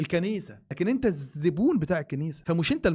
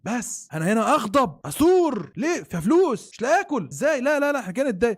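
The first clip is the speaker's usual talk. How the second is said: hammed-up priestly anger, louder and higher; mock priest outrage; 5 semitones higher, 4 dB louder than usual. Mocking priests upset over lost income, hammed-up anger. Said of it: "فالموضوع بالنسبه لهم".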